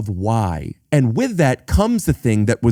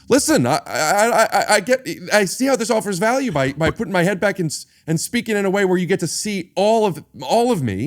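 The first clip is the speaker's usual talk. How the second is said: mock affected cadence; 6 semitones higher than usual. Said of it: "a lot of people will choose a cadence and they".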